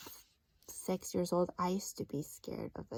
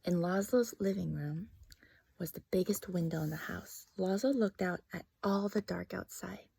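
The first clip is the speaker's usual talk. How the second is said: story narration. Acted. Teacher reads story to class.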